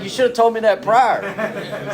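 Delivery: mock indignant, laughing through it; laughing mock protest at the book; laughing complaint. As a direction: tease the book for not warning you. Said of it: "it's like".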